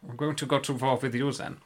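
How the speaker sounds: mock camp German accent, lightly done; a hammed-up German accent as Hitler. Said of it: "in his very camp German accent".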